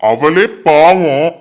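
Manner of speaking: slow, drawn-out pity; pitying plea. Acted. Mother insists her daughter is the poor one, slow pitying plea. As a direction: drag it out as if she's the poor victim.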